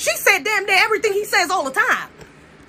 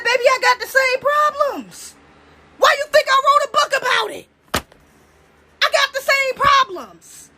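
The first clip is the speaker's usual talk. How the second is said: acted retort; 7 semitones higher than usual. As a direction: fire back in a raised, insistent pitch. Quoting the queen's retort to critics.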